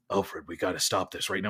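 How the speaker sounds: Batman voice. Retold or imitated. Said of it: "the Batman voice that he does when he's talking to Alfred".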